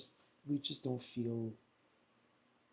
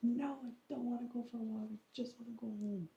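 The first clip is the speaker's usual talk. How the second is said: quick, higher, fed-up no; retold irritated refusal; 9 semitones higher, faster than usual. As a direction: snap back that you just want home. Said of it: "I'm like".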